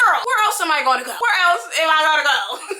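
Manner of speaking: laughing at the obvious; laughing sass. Retold or imitated. To her mom who says stay here, laughing sarcastic retort. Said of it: "I'm like".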